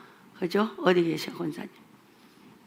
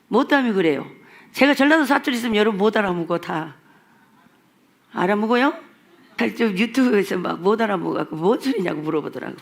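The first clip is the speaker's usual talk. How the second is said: ordinary delivery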